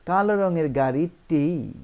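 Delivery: কালো রঙের গাড়িটি slowed, with গাড়িটি stretched; deliberate, drawn-out গাড়িটি; emphatic stress. Shown as a demonstration. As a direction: lean on the ending of গাড়িটি. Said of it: "এটাকেই বোঝাচ্ছে".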